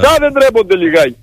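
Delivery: exasperated, reproachful repeat; real indignation. Real, not acted. Union secretary shaming the employers on air, indignant. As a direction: shame them, fed up and overwrought. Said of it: "Αγανάκτηση, αγανάκτηση".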